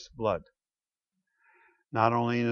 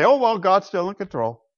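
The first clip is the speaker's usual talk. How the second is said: mock defeatist sigh; 6 semitones higher, 4 dB louder than usual. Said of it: "That's defeatist resignation to say".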